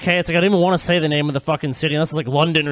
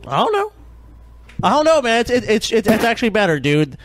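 mock Brit; 5 semitones higher than usual. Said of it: "be like".

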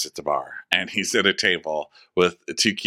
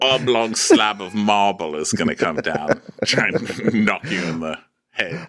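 Jess's voice pitched up, a light parody. Retold or imitated. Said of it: "Jess is like".

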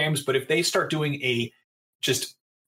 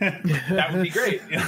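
laughing; 4 semitones higher, slower than usual. Real, not acted. Laughing, slowed.

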